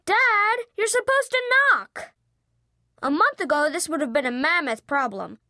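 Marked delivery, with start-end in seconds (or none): 0.0-2.1 higher-pitched, exasperated protest; exasperated kid. A narrator's reading. Son scolding dad for barging in, exasperated. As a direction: complain like an annoyed kid.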